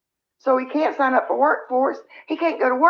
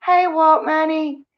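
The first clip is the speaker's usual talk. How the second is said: drawn-out, higher hey to a viewer; cheery greeting; 6 semitones higher, 3 dB louder, slower than usual. Real, not acted. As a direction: call out hey, slowly and brightly.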